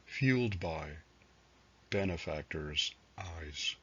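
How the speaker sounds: measured recital with pauses between phrases; poetry reading. Acted. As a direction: read it as verse, letting each line settle. Reads own poems aloud.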